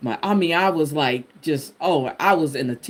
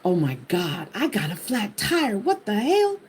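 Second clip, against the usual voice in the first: panicked; 3 semitones higher than usual. Retold or imitated. Panic after a flat tire.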